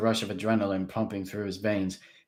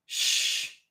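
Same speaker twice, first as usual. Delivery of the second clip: breathy whispered shh; whispered hush. A narrator's reading. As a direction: hush her gently. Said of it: "I whispered".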